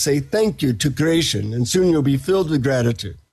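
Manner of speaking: lightly imitated guru with Indian accent. Guru instructing the seeker on gratitude, Indian accent. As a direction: teach patiently in a slight Indian accent. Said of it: "he says in his Indian accent".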